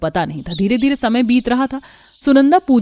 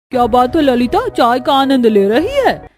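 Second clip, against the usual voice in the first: gossiping aunty calling out, a touch louder; nosy neighbour; 3 semitones higher, 5 dB louder than usual. Acted. Nosy neighbour teasing Lalita.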